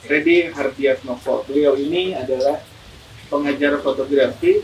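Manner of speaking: talking through a mask; through a face mask. Real, not acted. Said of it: "kita berdua pakai masker nih".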